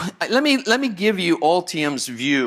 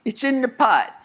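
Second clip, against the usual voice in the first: catchphrase echo; 9 semitones higher than usual. Retold or imitated. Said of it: "whatever tools you need".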